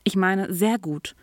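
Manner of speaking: "sehr" leaned on, slowly; correcting "ganz gut" to "sehr gut"; correcting himself. A narrator's reading. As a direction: stress "sehr" to fix the answer. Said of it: "Urban zögerte".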